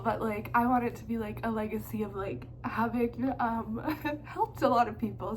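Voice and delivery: fighting tears while speaking; emotional, near tears. Real, not acted. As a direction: voice tight, holding back tears. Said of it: "I'm gonna get emotional".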